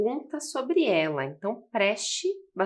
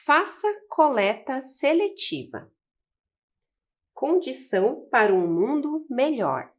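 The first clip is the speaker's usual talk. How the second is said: louder slogan read; slogan read aloud from the poster; 4 semitones higher, 5 dB louder than usual. Shown as a demonstration. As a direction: announce the slogan to the class. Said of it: "temos uma outra frase".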